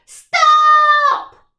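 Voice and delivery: huge, high shout; the pirate chief halting the crew. Acted. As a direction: call a sudden halt. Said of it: "called Hank Chief".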